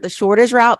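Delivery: "the shortest route" with "shortest" and "route" both pressed firmly; emphasis on shortest route. Shown as a demonstration. Coach stressing the key phrase to entrepreneurs, emphatic. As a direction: lean on "shortest route" so it sticks. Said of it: "I really emphasize that word".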